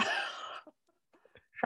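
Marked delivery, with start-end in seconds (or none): 0.0-0.1 talking around a pen; pen clenched in the teeth; mouth full. Real, not acted. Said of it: "Sarah has a pen in her mouth".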